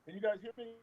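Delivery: muffled, distant voice; sounding like through glass; inside a fishbowl. Real, not acted. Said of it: "Sound like you talking in a fishbowl".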